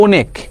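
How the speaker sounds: অনেক with a wide-open first vowel; teacher showing the open sound in অনেক; open vowel demo. Shown as a demonstration. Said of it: "বিবৃত উচ্চারণ মানে কি".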